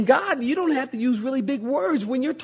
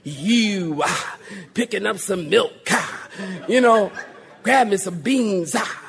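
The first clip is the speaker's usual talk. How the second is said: lightly voiced preacher with "ha" endings; mock preacher cadence; 2 semitones lower, slower than usual. Shopper greets pastor in the Food Lion, mock preacher cadence. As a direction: tack a puffed "ah" onto everyday phrases. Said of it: "When I see people in the Food Lion".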